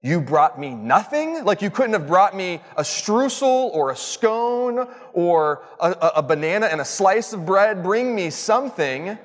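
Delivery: mock scream. Pastor mock-yells at the worker who brought no bread. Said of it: "I want to scream out to this person".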